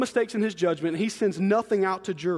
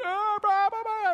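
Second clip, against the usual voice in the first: high wailing gibberish cry; imitated toddler screaming; 12 semitones higher than usual. Toddler comes in after bumping his head, screaming. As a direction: mimic a bawling child, pitched way up. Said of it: "he's screaming".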